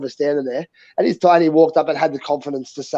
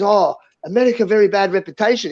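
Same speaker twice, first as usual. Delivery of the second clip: pitched-up imitation of a Chinese man; imitated Chinese man; 5 semitones higher than usual. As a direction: mimic a Chinese man's question. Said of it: "we had this little Chinese man walk up to us".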